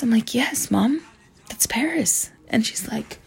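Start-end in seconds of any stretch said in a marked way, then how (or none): 0.3-2.3 exasperated. Retold or imitated. Exasperated correction.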